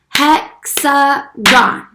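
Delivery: slow, syllable by syllable; clapped syllables. Shown as a demonstration. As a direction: clap out each syllable of Hexagon. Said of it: "Let's clap it out".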